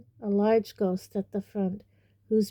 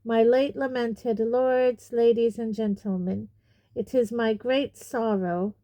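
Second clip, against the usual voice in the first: formal speech; 3 semitones higher than usual. Acted. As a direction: open a solemn oration to a crowd. Nick begins formal speech to crowd.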